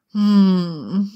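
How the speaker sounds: leichtes genießerisches Summen; genüsslicher Seufzer. A narrator's reading. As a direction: ein leises, zufriedenes Hm. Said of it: "seufzte Harry genüsslich". (Harry seufzt genüsslich, ein leises zufriedenes Brummen)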